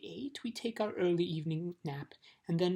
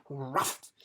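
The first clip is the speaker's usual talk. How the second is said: dog bark; 2 semitones lower than usual. Acted. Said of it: "exclaimed the watchdog".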